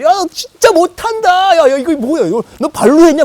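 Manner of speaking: high, loud mocking jeer; crowing, drawn-out teasing at full volume; gleeful taunting. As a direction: rub it in like you just won the World Cup. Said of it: "막 되게 좋아하시면서 막 놀리는 거야".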